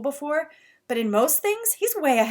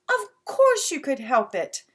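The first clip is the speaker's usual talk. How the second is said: scolding; 4 semitones higher, 4 dB louder than usual. Acted. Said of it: "Mom scolded".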